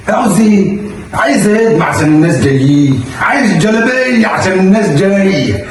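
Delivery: yelling for a robe; demanding shout. Acted. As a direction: bark the demand at her. Husband demanding robe from wife.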